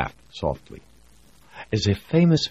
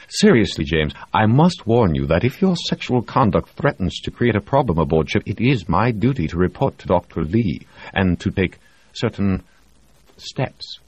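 warning doctor; 5 semitones higher than usual. Acted. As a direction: lay down the rule firmly. Reed warns officially.

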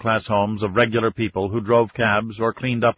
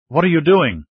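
higher, louder demanding question; urgent demand; 6 semitones higher, 5 dB louder than usual. A narrator's reading. Bodyguard questioning the departing President, demanding. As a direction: demand an answer, pitched up. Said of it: "Andrea demanded".

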